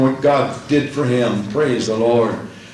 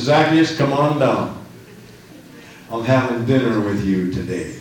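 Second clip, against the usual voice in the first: calm invitation; 2 semitones lower than usual. Acted. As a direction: call him down gently and unhurried. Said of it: "and he says".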